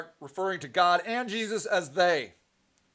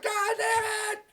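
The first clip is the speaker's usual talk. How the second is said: exasperated curse; 13 semitones higher, 5 dB quieter, slower than usual. Retold or imitated. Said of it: "I'm like".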